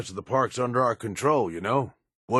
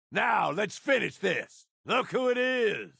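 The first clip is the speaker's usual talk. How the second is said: combat shout; 7 semitones higher than usual. Acted. Combat taunt.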